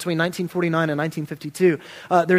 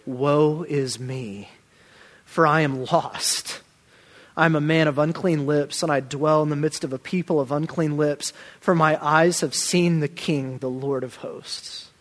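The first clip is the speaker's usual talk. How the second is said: solemn lament. Retold or imitated. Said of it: "his cry is".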